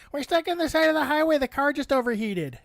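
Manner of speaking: high, fast, frantic wife voice; panicked wife. Retold or imitated. His wife calling from the highway, high and frantic. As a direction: rush it out like she's stranded. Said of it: "She's like".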